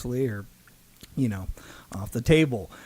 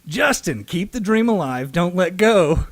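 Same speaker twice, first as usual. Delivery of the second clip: quoted autograph; 5 semitones higher, 5 dB louder than usual. Retold or imitated. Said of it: "what the guy wrote on it was".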